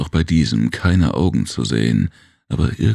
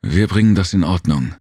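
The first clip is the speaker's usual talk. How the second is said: submissive; 5 semitones higher than usual. Acted. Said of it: "sagte Jem unterwürfig".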